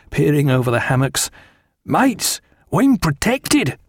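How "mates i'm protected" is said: high, drawn-out sailor's call. A narrator's reading. Sailor calling to his friends, high and jubilant. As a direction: call across to your mates, pitched up and slow. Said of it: "called out to his friends".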